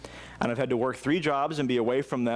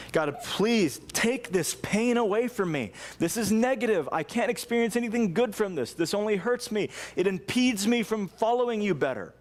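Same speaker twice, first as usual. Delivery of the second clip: pleading prayer; 4 semitones higher than usual. Retold or imitated. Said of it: "you're crying out to God".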